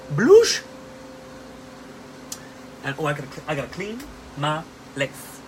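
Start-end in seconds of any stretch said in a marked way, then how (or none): 0.1-0.6 playful squeal. Pretend. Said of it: "I'm going to bloosh".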